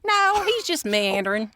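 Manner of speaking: hammed-up Southern accent. Reassuring the neighbor about the wandering dog, mock Southern accent. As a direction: answer in a put-on country accent. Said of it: "since we were talking like that".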